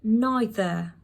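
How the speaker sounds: "neither" as NY-thuh; British pronunciation. Shown as a demonstration. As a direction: say "neither" with an eye sound first. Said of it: "You see how I'm pronouncing this word?".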